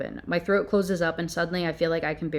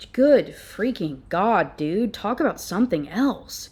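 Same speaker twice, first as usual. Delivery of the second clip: exasperated; 2 semitones higher, slower than usual. Real, not acted. Reviewer exasperated at author.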